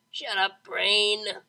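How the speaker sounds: frustrated yell. A narrator's reading. Vinyl snapping at her own overloaded brain, loud.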